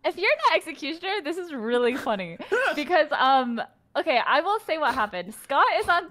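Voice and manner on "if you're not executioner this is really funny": laughing through the words; can't stop giggling while talking. Real, not acted. Laughing while defending herself.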